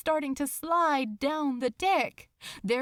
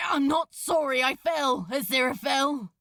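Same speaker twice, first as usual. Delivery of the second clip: louder, turning back to call over the noise; shout; 3 semitones higher, 5 dB louder, faster than usual. Acted. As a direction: call it out across the tilting deck. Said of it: "he turned to shout".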